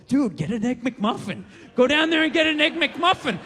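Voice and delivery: a lightly voiced devil on the shoulder, coaxing; tempting inner voice. His greasy demon voice coaxing him toward McDonald's, lightly voiced. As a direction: coax him toward the Egg McMuffin like a sly tempter. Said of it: "this other voice going".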